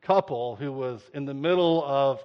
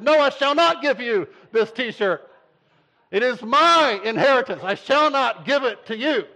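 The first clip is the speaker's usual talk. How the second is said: higher, loud, hammed-up King James voice; mock-archaic refusal; 10 semitones higher, 7 dB louder than usual. Brother refusing to hand over the shirt, higher hammed-up proclamation. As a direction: refuse like a smug little lord.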